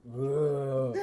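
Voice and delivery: dopey creature moan, played for laughs; imitated monster groan. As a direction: groan back like a puzzled monster.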